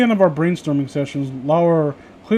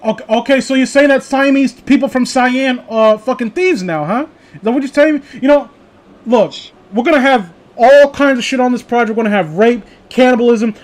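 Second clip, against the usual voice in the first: a hint of an unhinged boss; lightly voiced director. Director ranting at the intern, a touch heightened.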